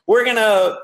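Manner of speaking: high, gushing imitation of an excited newbie; eager burst, voice jumping up. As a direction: launch into a mock hyped-up pitch. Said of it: "he's so excited".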